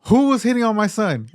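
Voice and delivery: high, loud mock outburst, half laughing; dad's angry yell. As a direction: yell it like a furious dad. Dad storming in, angry.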